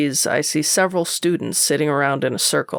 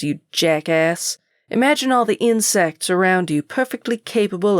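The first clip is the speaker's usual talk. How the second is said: scoffing; 4 semitones higher than usual. Acted. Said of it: "He scoffs".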